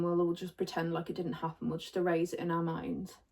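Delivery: talking around a sip of coffee; words followed by a noisy slurp of hot coffee. Real, not acted. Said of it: "sorry if you could hear me slurping then".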